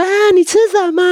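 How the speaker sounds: high, loud mock exclamation; exaggerated high-pitched imitation of mom; mom walking in. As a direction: pipe up loudly as a nosy mom. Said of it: "他如果走进来说".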